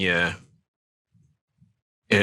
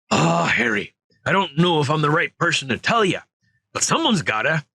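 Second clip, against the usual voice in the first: big friendly giant, voice lifted higher; lightly voiced gentle giant, higher; Hagrid voice; 7 semitones higher, faster than usual. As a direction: play the worried gamekeeper, pitched up. Hagrid's lines read in character.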